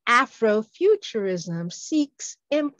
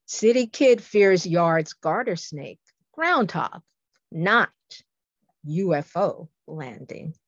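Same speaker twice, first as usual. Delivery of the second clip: quicker, more connected haiku reading; poem recitation; 3 semitones lower than usual. Shown as a demonstration. Poet repeats the sci-fi haiku for listeners, more flowing recitation. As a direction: recite it in running phrases, pausing around the final "not". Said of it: "Here's a sci-fi coup".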